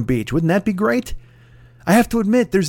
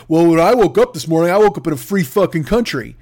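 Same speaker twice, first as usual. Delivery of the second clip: louder, puffed-up mock indignation; mocking indignant customer; 2 semitones higher, 4 dB louder than usual. Customer lecturing the Costco manager, mock indignant. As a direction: sound self-righteous about freedom. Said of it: "he's just like".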